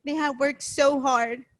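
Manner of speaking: choked up, pushing the words out; emotional thanks to hardworking parents, close to crying; holding back tears. Real, not acted. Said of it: "I'm gonna cry".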